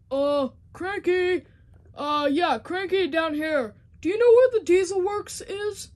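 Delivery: loud call up high. Acted. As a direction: shout up to someone above. Calling up to the crane.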